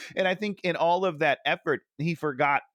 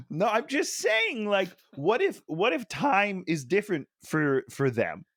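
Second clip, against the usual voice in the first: pitched way up, eager; high, excited; 6 semitones higher than usual. Real, not acted. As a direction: push the idea up high and eager. Excited pleading point.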